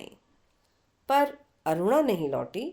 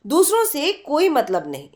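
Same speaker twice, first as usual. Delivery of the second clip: heated; 3 semitones higher, 4 dB louder than usual. Acted. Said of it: "Aruna आवेश में बोली".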